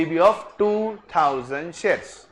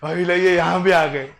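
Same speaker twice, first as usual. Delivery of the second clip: imitating the students; 4 dB louder than usual. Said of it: "वो वहाँ जाते".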